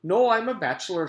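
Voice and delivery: a hint of a cheerful teacher; lightly voiced teacher. A narrator's reading. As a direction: answer like a pleasant schoolteacher. Mister Gorf voice.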